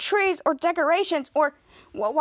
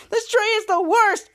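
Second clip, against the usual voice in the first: higher, teary complaint; high weepy whine; whiny; 7 semitones higher, 3 dB louder than usual. Acted. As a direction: whine about the tree like a sulky kid. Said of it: "Bose was like".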